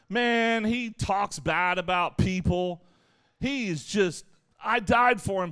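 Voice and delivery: a pastor playing a fed-up Jesus; voicing a disappointed Jesus. Jesus complaining to the angels about Joe, mock disappointed. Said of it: "and he says".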